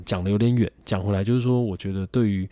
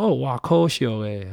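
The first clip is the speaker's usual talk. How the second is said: regretful auntie; 5 semitones higher, 3 dB louder, slower than usual. Retold or imitated. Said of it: "他说".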